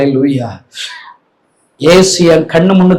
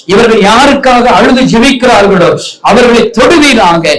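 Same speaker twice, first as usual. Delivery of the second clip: rising, urgent prayer over the congregation; preacher praying at full force; fervent intercessory prayer. Acted. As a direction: pray over them with building fervour. Leads a closing prayer.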